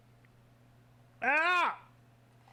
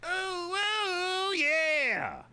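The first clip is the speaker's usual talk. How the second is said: Alf voice; 12 semitones higher, much slower than usual. Acted. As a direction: play the sitcom alien Alf. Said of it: "your Alf voice is very good".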